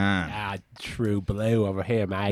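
a light, playful Australian twang; Aussie accent. Pretend. To his Kiwi co-host, a mock Aussie accent. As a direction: lay on a touch of Aussie slang and twang. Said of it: "You sound like you've got an Aussie accent".

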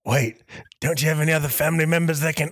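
panicked question at a pretend deathbed; mock desperation. Acted deathbed scene, comrade interrupts.

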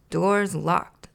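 a touch of a curt grouch; mild snap; snapped. Acted. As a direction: shut the idea down. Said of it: "snapped Oscar".

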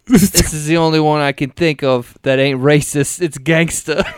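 mock New York gangsta accent; New York mobster accent. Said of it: "It's New York mobster gangsta".

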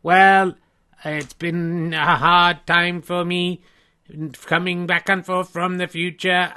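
slow, deliberate robot. Acted. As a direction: speak like a stiff humanoid robot. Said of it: "I'm not sure you talked like that".

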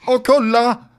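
put-on excited exclamation in a Scanian accent. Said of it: "jag pratar ju inte skånska". (glad utrop på skånska)

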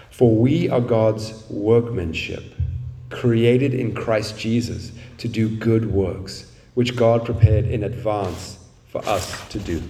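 slow, measured Bible reading; scripture reading. Acted. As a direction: read the verse slowly, with deliberate pauses. Reads the Bible verse aloud.

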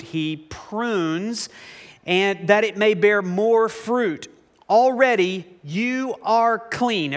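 measured, deliberate Bible reading; Scripture reading. Acted. Preacher reads Jesus' words in John fifteen to congregation, measured Scripture reading. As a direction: read it out with weighty pauses.

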